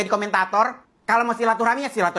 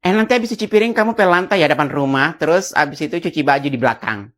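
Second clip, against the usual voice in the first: bossy mother; 4 semitones lower, 5 dB louder than usual. Acted. Mother piling on chores.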